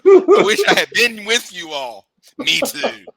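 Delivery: high, loud hollering from a distance; homeboy in back. Acted. Homeboy calling from the back of the truck, loud and high. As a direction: holler it high over everyone else. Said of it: "this is me in the back of the truck".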